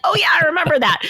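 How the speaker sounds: high, lightly mocking husband voice; husband recalling. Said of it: "I keep getting text messages".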